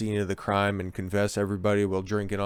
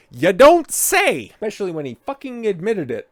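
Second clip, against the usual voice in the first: sarcastic; 9 semitones higher, 8 dB louder than usual. Real, not acted. Sarcastic reaction to news.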